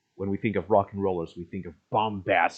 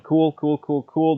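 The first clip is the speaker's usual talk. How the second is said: excited; 7 semitones higher, 5 dB louder, slower than usual. Real, not acted. Excited reaction to the design.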